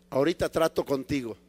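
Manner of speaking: lightly voiced calm God; the Lord reassuring. The Lord puts off eager Paul, calm and low. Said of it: "dice el Señor".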